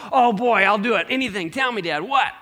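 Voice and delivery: put-on a keen young son who can't wait to hear the deal; a touch of boyish excitement; eager son.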